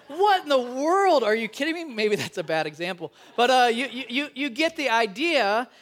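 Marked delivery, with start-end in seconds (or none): 0.1-1.8 a high, loud burst of disbelief; mock astonished outcry. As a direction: gasp out the shock like you can't believe it. Amazed at the toothless uncle.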